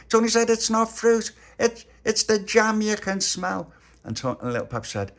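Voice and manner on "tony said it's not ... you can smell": high, giggling through the words; laughing. Acted. Narrator giggling while voicing Tony about the jam. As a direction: laugh as you correct them.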